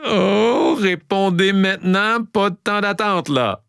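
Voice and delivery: high, whiny mock impatience; mock pleading. Quiz host hurrying listeners to answer, high mock whine. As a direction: playfully plead for an answer right away.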